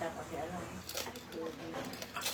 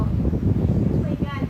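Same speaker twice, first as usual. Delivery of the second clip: surprised; 3 semitones higher, 10 dB louder, much slower than usual. Real, not acted. Shocked reaction to Teacher's Day.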